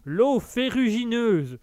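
drawn-out mock Bourvil line; Bourvil catchphrase. Viewer's quote read back in a slow hint of Bourvil. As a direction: stretch out the famous phrase slowly. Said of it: "qui nous ressort la célèbre phrase".

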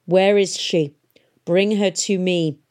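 a grinding, forceful command; urgent demand. A narrator's reading. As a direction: press hard for the girl. Shrike demands the girl.

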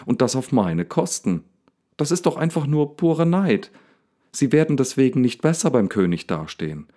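heated rant, pitch climbing high; getting worked up. Acted. Daniel rants about envious rivals, worked up. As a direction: really get going now. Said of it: "jetzt kommt Daniel richtig in Fahrt".

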